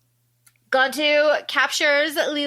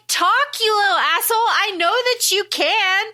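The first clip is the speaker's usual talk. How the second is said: raised, pushy mock demand; half-hammed angry command; demanding threat; 8 semitones higher, 3 dB louder than usual. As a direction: lean on him to make him talk. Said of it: "And she's like".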